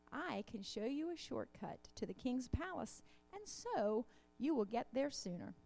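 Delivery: storybook read-aloud with lightly voiced animals; reading a children's story. A narrator's reading. Reads children's tale in sermon.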